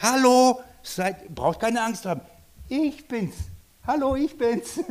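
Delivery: a casual hello to calm scared friends; Jesus greeting. Acted. Jesus calls to the terrified disciples in the boat, cheerful and high. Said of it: "Er sagt".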